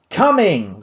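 loud call back across the kitchen; bellowed reply. Acted. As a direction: shout it back to the pirate. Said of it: "Vlad bellowed back".

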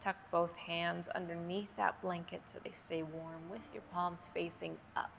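unhurried yoga breathing cues with long pauses; measured, spacious yoga nidra instruction; guided meditation. Real, not acted. Leads yoga nidra breathing for sleep.

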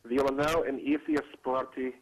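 put-on slow, jokey Russian accent; we becomes vee, Russian accent. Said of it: "it'll be more like".

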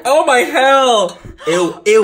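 disgusted laugh. Real, not acted. Disgusted by the smell.

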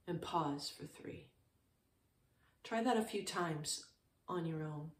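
calm, unhurried meditation guidance with long pauses; short, settled phrases with room to breathe; guided meditation. Real, not acted. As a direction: guide listeners gently into stillness, leaving space between phrases.

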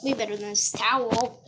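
laughing through the words. Real, not acted. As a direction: giggle it out. Repeats while laughing.

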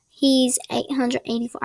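light put-on accent, "four" without its R. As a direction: slip briefly into a playful accent, softening "four" to "foah". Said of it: "I don't know why I did the accent".

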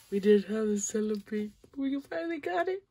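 high, loud, thrilled shouting; real excitement over a rare card; freaking out. Real, not acted. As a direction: shout with joy at the rare pull. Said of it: "I'm freaking out".

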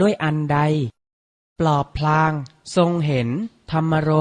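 measured Thai poem reading in short phrases; poem read aloud with deliberate breaks; verse recitation. Acted. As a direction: recite the verse phrase by phrase, pausing between each.

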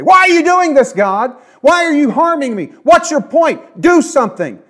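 loud and high, shouting why at God; angry accusing cry. Retold or imitated. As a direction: hurl the questions at God. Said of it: "It's another thing to say".

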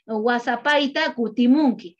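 "Pajarin inti" despacio, sílaba por sílaba; dícta la frase en quechua con calma; lento y claro. Shown as a demonstration. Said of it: "acá dice". (lectura lenta de la frase en quechua)

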